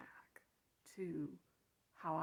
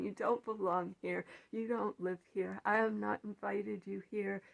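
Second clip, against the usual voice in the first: firm loud dismissal; 4 dB louder than usual. Retold or imitated. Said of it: "I just say".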